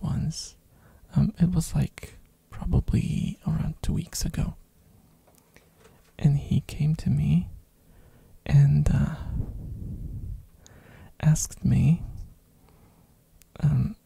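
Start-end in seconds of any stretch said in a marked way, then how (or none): 1.7-12.0 ASMR whisper. Real, not acted. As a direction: whisper close to the mic.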